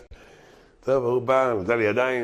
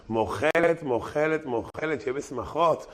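drawn-out words, getting softer each time; mock smitten forgiveness; 3 semitones higher, 4 dB quieter, slower than usual. Smitten woman forgiving the man who came for pardon, mock dreamy. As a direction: forgive dreamily, letting it fade.

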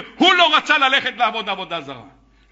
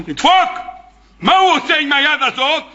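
sudden exclaim; 5 semitones higher than usual. Real, not acted.

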